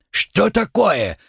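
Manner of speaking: a stern high-pitched guard stopping them; Uzbek worker. Acted. Worker blocks their way.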